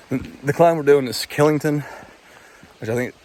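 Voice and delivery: holding back hiccups while talking; suppressing hiccups. Real, not acted. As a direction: talk through hiccups, fighting them down. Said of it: "sorry, hiccups".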